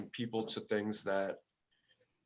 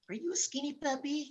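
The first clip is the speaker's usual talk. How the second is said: very high, silly voice for talking to a dog; funny animal-talk voice. Retold or imitated. Musician asking a truck-stop dog, funny high-pitched voice. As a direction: squeak it high, as if cooing at an animal. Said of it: "saying it in this funny voice".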